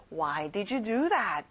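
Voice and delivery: slow, clear teacher model; slow model sentence. Shown as a demonstration. Teacher models the question slowly for kids. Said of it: "이렇게 말하면 되겠죠".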